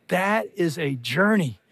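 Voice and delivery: ordinary delivery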